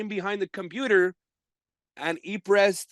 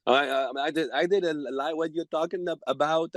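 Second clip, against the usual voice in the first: halting, stuttered denial; flustered broken English; 3 semitones lower than usual. Retold or imitated. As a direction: play dumb, stumbling over the words. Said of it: "I'm not speaking English good now".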